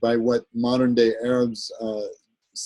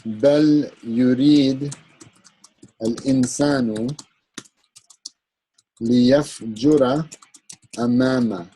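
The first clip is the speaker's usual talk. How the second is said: Quran recitation. Shown as a demonstration. Teacher quoting a Quran verse, recited. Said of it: "so there is one".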